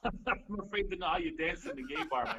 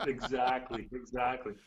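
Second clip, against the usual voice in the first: laughing through the word; amused laugh while agreeing; 3 semitones lower than usual. Real, not acted. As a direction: chuckle it out, slowed down. Laughing at the hat joke.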